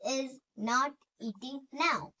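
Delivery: very slow, word by word, for students to write; slow dictation. Shown as a demonstration. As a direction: spell it out slowly so the class can copy. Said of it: "dictation to students".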